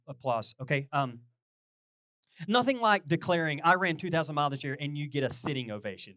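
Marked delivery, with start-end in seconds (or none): 2.5-4.8 a proud runner's loud quick boast; excited declaring. Real, not acted. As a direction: announce it loud, rushing the boast. Boasting about mileage to congregation.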